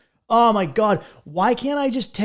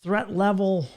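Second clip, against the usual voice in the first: higher, slowed announcer listing colors; ridiculous announcer; 4 semitones higher than usual. Retold or imitated. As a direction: savor each fancy color name. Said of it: "They were like".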